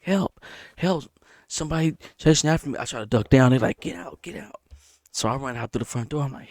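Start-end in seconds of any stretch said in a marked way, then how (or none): 0.0-2.8 panicked cry for help. Retold or imitated. Fleeing, calling for help. 3.8-4.6 urgent whisper, get out. Retold or imitated. Homeowners telling him to leave.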